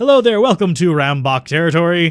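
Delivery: loud voice brimming with pride. Voicing a gang woman greeting the players: voice brimming with pride. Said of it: "the voice brimming with pride".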